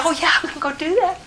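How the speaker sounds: eager yes. Pretend. Eager reply to Jesus.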